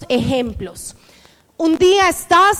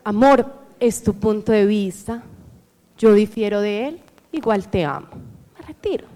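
softly calm, lower and quieter, no raised voice; calm soft reply; 5 semitones lower, 4 dB quieter than usual. Shown as a demonstration. Calmly telling her partner she disagrees, softly. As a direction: speak to your partner gently, refusing to fight.

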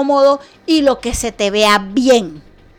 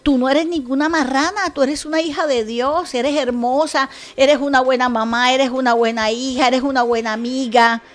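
tender friend. Retold or imitated. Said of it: "que le digo".

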